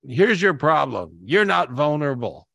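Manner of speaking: firm mentor's verdict, slowed down; quoting him. Retold or imitated. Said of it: "when you said".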